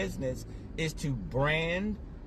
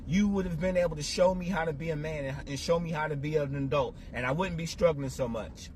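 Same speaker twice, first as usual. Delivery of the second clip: fast, higher, pleading reproach to absent father; blaming Dad; 3 semitones higher, faster than usual. Retold or imitated. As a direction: rattle off the accusations, voice raised and pressing. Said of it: "I was like".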